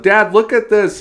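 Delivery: high, loud mock kid's yell; imitating daughter's yell. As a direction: yell out like an excited child calling Dad. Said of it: "my daughter's yelling".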